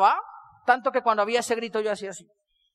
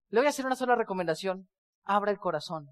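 quiet advice; 4 semitones lower, 7 dB quieter than usual. Retold or imitated. Lady's soft advice.

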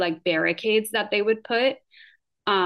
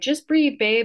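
mock boyfriend; 7 semitones higher than usual. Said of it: "And he'd be like".

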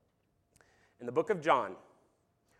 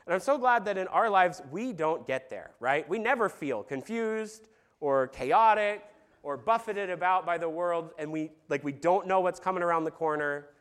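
sarcastic. Acted. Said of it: "You get the sarcasm there".

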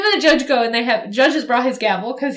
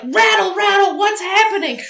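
panicked Gumshoe; 8 semitones higher than usual. Retold or imitated. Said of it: "we flash to Gumshoe and he's like".

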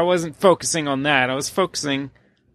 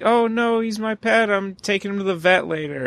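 higher, reassuring mock lady voice; lightly voiced lady; 4 semitones higher than usual. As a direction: breezily explain your pet rat. Lady voiced in retold story.

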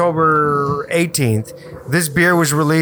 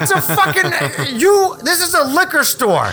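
retold rant; 10 semitones higher than usual. Retelling his rant at the liquor store clerk, high indignant. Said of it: "I was like".

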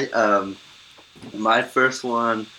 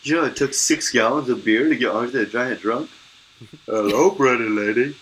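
Andre the Giant impression; 3 semitones higher than usual. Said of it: "so good. Spot on".

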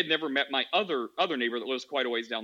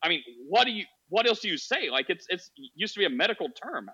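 mock shocked; 3 semitones higher than usual. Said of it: "she was, like, shocked".

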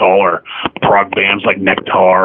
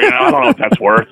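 shop lady voice; 12 semitones higher than usual. Retold or imitated.

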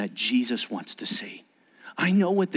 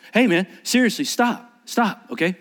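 firm raised stop; 4 semitones higher than usual. Shown as a demonstration. Parent calling across the room to stop a child, raised voice. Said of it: "You see the difference?".

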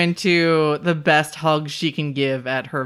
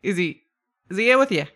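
put-on Australian accent; 3 semitones higher, much faster than usual. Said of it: "That's just fucking Australian".

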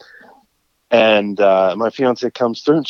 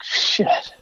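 breathy, quiet curse under his breath; hushed resigned shit; muttered curse; 7 dB quieter than usual. Retold or imitated. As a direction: swear softly to yourself, resigned. Stuck, quietly swearing to himself.

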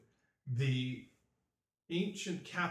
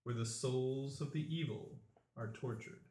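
solemn chanting prophecy; mystic oracle voice; 2 semitones lower than usual. Acted. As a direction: intone it like an ancient seer.

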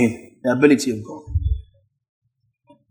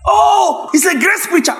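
mocking critic; 12 semitones higher than usual. A preacher mimics critics sneering at him as a grace preacher, high mocking shout. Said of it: "mocking critics".

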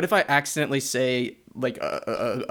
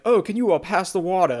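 lightly put-on Southern voice, higher and louder; Southern accent; 5 semitones higher, 3 dB louder than usual. Imagined Southerner asking at the table, mild Southern accent. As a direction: mimic a polite Southern request. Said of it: "You just meet some Southern person".

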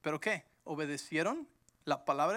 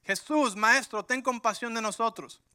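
louder, pleading cry from afar; llamada a gritos; 3 semitones higher, 5 dB louder than usual. Acted. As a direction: call out begging for mercy. Leprosos gritando de lejos. (grito suplicante de lejos)

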